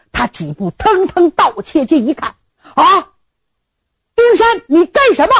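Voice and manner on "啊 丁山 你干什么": high, loud shout to stop him; old general catching the groom beating his bride, shouting; alarmed shout. Acted. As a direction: yell across the room to stop the beating.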